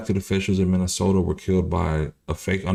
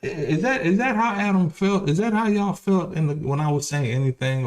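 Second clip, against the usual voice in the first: laughing disbelief; 11 semitones higher than usual. Real, not acted.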